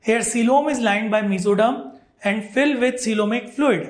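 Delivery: very slow, word by word, as if for notes; slow dictation. Shown as a demonstration. Teacher dictating the definition to students, very slow. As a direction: read the definition out slowly so students can write. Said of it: "तो read out करते हैं".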